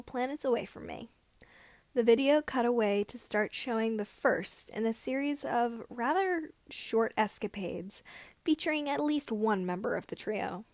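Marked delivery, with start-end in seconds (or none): none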